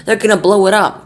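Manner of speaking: high, loud panicked cry; army chief crying out in alarm. Acted. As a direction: cry out in alarm like a scared general. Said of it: "cried the chief of the army".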